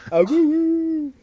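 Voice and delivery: high, slow, loud wolf howl; howling like a wolf pup. Pretend.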